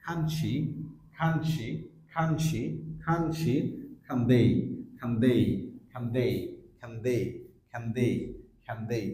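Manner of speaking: "can" shortened to /kən/ before the pronoun; weak form. Shown as a demonstration. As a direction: link reduced "can" to "she" or "they". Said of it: "আমরা এভাবে বলতে পারি". ("can" ছোট করে পরের শব্দের সাথে জুড়ে)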